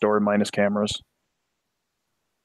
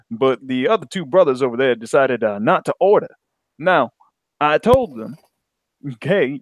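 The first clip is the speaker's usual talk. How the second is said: put-on African American accent; lightly voiced African American accent; black voice. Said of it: "I get my black voice in".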